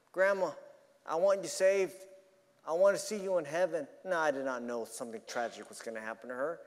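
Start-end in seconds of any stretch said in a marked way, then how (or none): 0.1-3.9 earnest retold appeal, phrase by phrase; retold pleading. Preacher retelling his appeal to grandma to be saved, pleading. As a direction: plead as if recalling the phone call. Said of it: "I pleaded with her".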